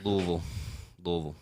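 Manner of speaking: Louisville as two syllables, "LUH-vul"; local pronunciation. Shown as a demonstration. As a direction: drop the middle of Louisville, falling. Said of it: "there's no I in S in it".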